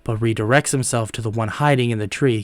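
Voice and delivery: measured storyteller's delivery; recap-style story narrator; story narration. A narrator's reading. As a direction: narrate the tale evenly, a little held back.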